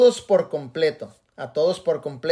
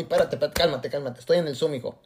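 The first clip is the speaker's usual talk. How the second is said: softer, soothing, hurried under the breath; calm yourself down quietly mid-meeting; hushed self-calming; 3 semitones lower, 6 dB quieter, faster than usual. Retold or imitated. Speaker hushing his inner lion during a Zoom call, softly.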